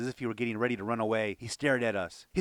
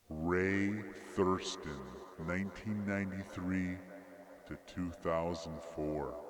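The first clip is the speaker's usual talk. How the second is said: lower, softer, slow, halting; stunned, quiet reread; 5 semitones lower, 8 dB quieter, slower than usual. A narrator's reading. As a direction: read it again in numb disbelief. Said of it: "I read the deeply etched inscription again".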